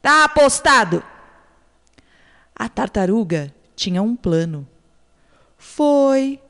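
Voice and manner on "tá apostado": a mildly raised, higher call; shouted bet. Acted. Jaguar accepting the turtle's bet, a mild shout. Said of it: "A onça gritou".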